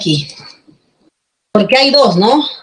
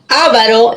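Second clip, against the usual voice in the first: AVARO stressed on its first A, ÁVARO; stress on first syllable. Shown as a demonstration. Teacher reads out the word for students, stress on first syllable. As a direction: hit the opening A of AVARO. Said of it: "esdrújula".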